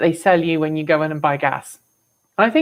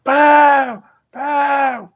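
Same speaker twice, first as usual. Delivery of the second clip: put-on louder, higher booing old crone voice; Princess Bride old lady; 6 semitones higher, 5 dB louder than usual. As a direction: jeer like the old hag in the crowd. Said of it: "the old lady in, in, uh, Princess Bride".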